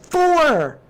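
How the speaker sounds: very high, loud, stretched-out gasp of shock; squealing in disbelief at a new clue. Real, not acted. Streamer reacting to a clue in sudden high-pitched shock.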